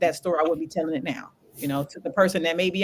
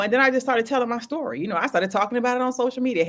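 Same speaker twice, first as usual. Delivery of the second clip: ordinary talk, nothing marked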